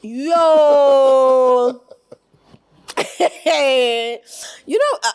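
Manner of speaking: loud laughing exclamation. Real, not acted. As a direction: burst out laughing.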